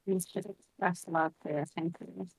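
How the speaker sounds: glitchy robotic call audio; distorted like a bad Discord line. Real, not acted. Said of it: "You are so robot-y".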